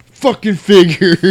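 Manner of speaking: slow, high mock grumble; a lightly voiced sour grunt of a line; imitating C J. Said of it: "reminded me of C J in Dawn of the Dead".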